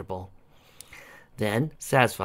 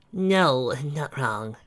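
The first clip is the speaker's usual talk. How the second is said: dreamy; 4 semitones higher, much slower than usual. A narrator's reading. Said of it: "said Trixie dreamily".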